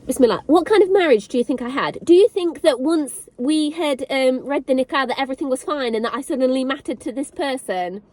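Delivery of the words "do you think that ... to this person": words pushed out through tears; crying while speaking. Real, not acted. Woman telling viewers of her marriage, crying as she speaks. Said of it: "I can't fight these back anymore".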